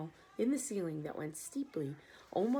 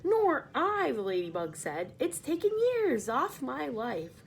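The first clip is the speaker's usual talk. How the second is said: high, light ladybug voice; a small lady insect, weary after the trip; 6 semitones higher, 5 dB louder than usual. Acted. The ladybug sighs to the others, high and light.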